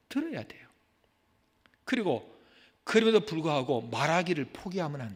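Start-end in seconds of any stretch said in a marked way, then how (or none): 0.1-0.7 hushed earnest whisper. Acted. Preacher urging congregation to listen, whispered. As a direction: lean in and whisper it. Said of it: "whispered admonition".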